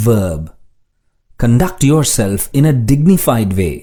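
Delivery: slow, deliberate example sentences; slow dictation reading. Shown as a demonstration. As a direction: read each sentence slowly for learners.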